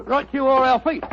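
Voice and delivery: light cockney sidekick voice; a hint of cockney workman; cockney disguise. Sidekick answers his mate in a light cockney. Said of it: "What barbaric jargon do you speak?".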